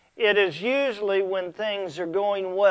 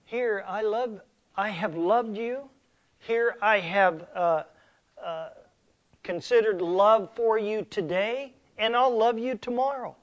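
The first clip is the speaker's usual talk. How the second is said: sarcastic; 4 semitones higher than usual. Acted. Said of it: "sort of a sarcastic way to say".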